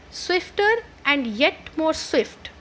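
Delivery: slow, stretched-out recitation; poem recital. Shown as a demonstration. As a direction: draw out each word like a poem line. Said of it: "let's start with the poem".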